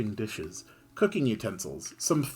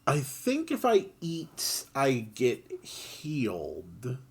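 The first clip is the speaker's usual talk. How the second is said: slow, voiceless whisper; whispered aside; 3 semitones higher, slower than usual. Real, not acted. Player musing about healing, slow whisper. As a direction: drop to a hushed whisper. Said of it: "player whispers a game aside".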